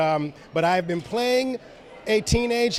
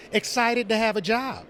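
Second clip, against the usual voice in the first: Cyborg voice; 3 semitones higher than usual. Shown as a demonstration. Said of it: "Can you give us a Cyborg voice?".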